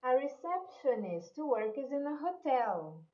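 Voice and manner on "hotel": hotel said ho-TEL, the stress on the final syllable; stress on last syllable. Shown as a demonstration. Teacher models hotel for Brazilian students, stressing the last syllable. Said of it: "Cuidado com a pronúncia de hotel".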